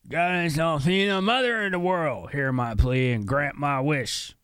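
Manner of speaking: high put-on pleading voice; Ronfar's prayer. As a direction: intone it as a game hero's plea to a goddess. Reads game character's plea.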